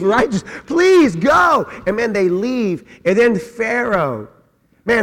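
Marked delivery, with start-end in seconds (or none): 0.3-1.7 pleading yell. Acted. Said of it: "the Egyptians were like".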